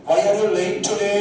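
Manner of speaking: slow but not dragged question. Shown as a demonstration. Teacher correcting the drawl for students, slow. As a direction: model it slow without overdrawing. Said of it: "বেশি টেনো না".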